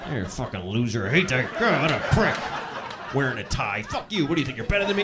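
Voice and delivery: low grumbled contempt, acted; silent boiling hatred. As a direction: grumble insults to yourself at a stranger. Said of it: "you're boiling with hatred".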